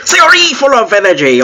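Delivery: high, hammed-up fake Asian accent; attempted Asian accent. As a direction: overdo a clumsy Asian accent. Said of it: "what Asian accents sound like".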